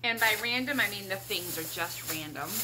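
talking around a cough drop; words round a lozenge; cough drop in mouth. Real, not acted. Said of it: "I've got a cough drop in my mouth".

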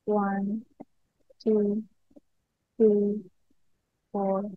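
slow, spaced-out meditation count; guided breathing count. Shown as a demonstration. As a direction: count the breaths evenly, leaving long pauses. Leads a counted breathing exercise.

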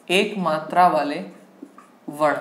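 long pause before the last word; dictation in chunks. Shown as a demonstration. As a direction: dictate it piece by piece for note-takers. Teacher dictates heading again in chunks.

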